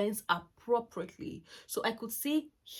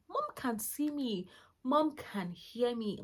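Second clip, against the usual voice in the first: put-on child's inner voice; 4 semitones higher, slower than usual.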